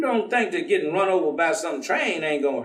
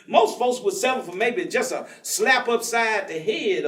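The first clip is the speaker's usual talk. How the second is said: chuckling through the line; amused, laughing delivery; 5 semitones higher than usual. Acted. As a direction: let the laugh carry the joke. Joking about a slap.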